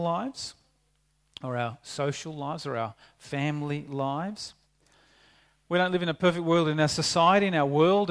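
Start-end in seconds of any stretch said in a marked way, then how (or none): 5.7-8.1 louder and quicker, pressing the point home; emphatic, building. Real, not acted. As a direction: drive the refrain up to the congregation. Preacher raising the refrain.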